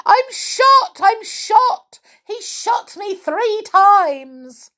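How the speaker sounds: screamed in very high, loud panic; hammed-up storybook scream; Amelia Jane. A narrator's reading. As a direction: wail it like a wounded doll. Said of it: "and Amelia Jane screamed".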